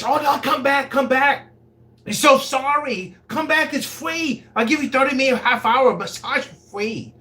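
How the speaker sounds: high pleading mock accent of the madam; imitating Asian lady's accent. Madam pleading with him to come back, imitated accent. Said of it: "impression of the Asian lady's voice".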